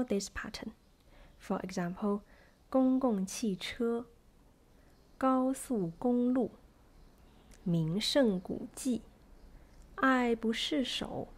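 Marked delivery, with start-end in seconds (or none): 2.7-11.3 slow, measured syllables with weight on the last, as in 公共汽车; stress on fourth syllable. Shown as a demonstration. Teacher gives four-syllable examples, slowly, last syllable stressed. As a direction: sound out 高速公路 slowly, landing on the fourth syllable. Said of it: "stress is usually on the fourth syllable".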